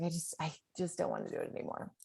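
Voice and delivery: exhausted runner telling her husband she quits; defeated, worn out. Retold or imitated. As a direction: let the words sag out of you, spent. Exhausted, giving up in car.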